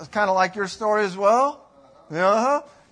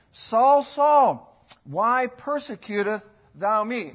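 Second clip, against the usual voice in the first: calling out; 5 dB louder, much slower than usual. Acted. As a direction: call his name out across the room. Preacher voices the Lord calling.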